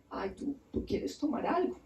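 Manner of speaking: soft, enticing acted offer; coaxing charm. Underworld queen offers tired Nergal a drink, softly coaxing. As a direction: offer it softly, to win him over. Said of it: "con encanto lo manipula".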